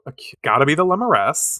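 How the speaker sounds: ordinary delivery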